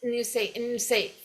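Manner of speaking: "And you say" starting on N, the A cut off; clipped first vowel. Shown as a demonstration. Teacher shows the A gets cut, clipped linking. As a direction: cut the A and begin "nyou say". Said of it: "corta até o A aqui".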